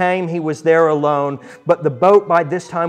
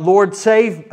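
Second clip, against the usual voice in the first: crying out; 4 semitones higher, 5 dB louder than usual. Acted. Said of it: "and cried out".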